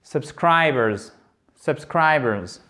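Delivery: Subscribers slowly, SUB and BERS reduced round SCRI; proper schwa. Shown as a demonstration. Teacher models correct schwas, slow subscribers stressed on SCRI. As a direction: stretch SCRI, let the other vowels of subscribers relax. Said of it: "vous allez prononcer le schwa comme il faut".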